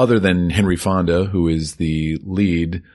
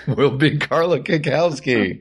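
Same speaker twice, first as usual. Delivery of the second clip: town crier; 8 semitones higher than usual. Pretend. Bailiff announcing judge.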